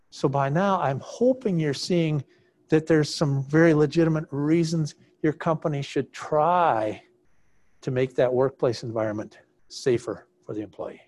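muffled through a face mask; talking through a mask. Real, not acted. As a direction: speak as if behind a mask. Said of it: "tired of talking through this mask".

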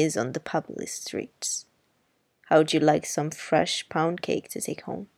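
put-on a touch of the wry older woman; lightly voiced Miss Maudie.

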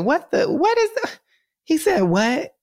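high, baffled mocking voice; mock bewildered. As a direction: play dumb and confused. Mocking confused reporters.

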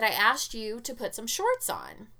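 mildly exasperated, slowed reminder; a touch of weary exasperation. Retold or imitated. Mother mildly exasperated at her pantless son. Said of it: "I said it exasperatedly".

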